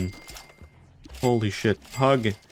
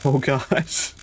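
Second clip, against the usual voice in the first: panicked pleading; 5 semitones higher than usual. Real, not acted. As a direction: plead for rescue in rising panic. Begging as game lags.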